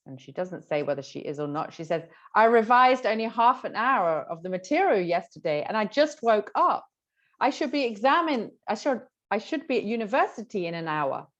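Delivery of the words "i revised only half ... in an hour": higher-pitched, mildly flustered excuse; lightly acted student fretting before an exam; acted worried student. Shown as a demonstration. Acts unprepared student's answer.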